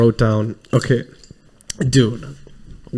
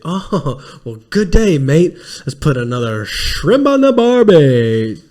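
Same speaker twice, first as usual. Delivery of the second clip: mock Australian accent; 3 semitones higher, slower than usual. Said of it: "He's like".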